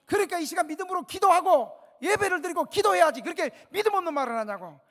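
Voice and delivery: loud, high, forceful scolding; a pastor loudly rebuking a doubting relative at the bedside; bold rebuke. Retold or imitated. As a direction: rebuke her with bold faith, full voice. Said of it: "내가 이렇게 꾸짖었어, 진짜 이 목소리로".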